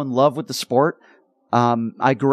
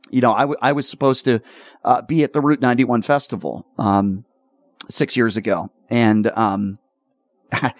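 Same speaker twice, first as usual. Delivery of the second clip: choked up. Real, not acted. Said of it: "I'm getting choked up talking about it right now".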